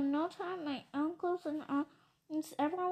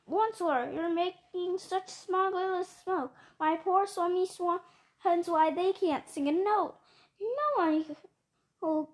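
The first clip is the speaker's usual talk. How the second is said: scolding Lorax; 4 dB louder than usual. Acted. Lorax scolds the Once-ler over his smog, loud and reproachful.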